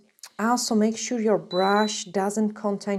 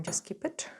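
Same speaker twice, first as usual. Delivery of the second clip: whispered; 10 dB quieter than usual. Real, not acted. Muttered aside to herself.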